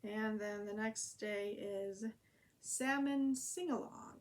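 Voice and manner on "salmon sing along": drawn out, high and loud, sing-song; sing-song title. Real, not acted. Reading her diary title to viewers in a high, loud sing-song. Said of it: "Oh, where I just lost it".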